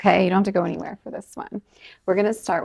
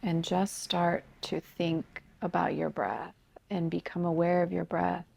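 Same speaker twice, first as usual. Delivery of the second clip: softer, unhurried meditation guidance with long pauses; guided meditation; 5 dB quieter than usual. Acted. Yoga teacher guiding students to become aware of breath, calm meditation voice. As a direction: gently lead them into noticing the breath, leaving space between phrases.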